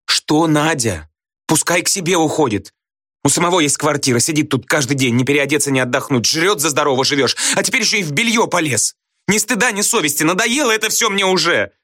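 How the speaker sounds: wife rants at husband, pitch soaring; screaming. A narrator's reading. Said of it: "крикнула Надя". (крича, в истерике)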